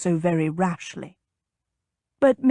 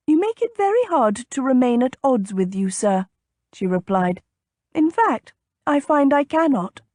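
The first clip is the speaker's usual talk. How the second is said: higher lady, playfully relenting; lightly voiced teasing lady; 4 semitones higher than usual. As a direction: give in to him, pitched up.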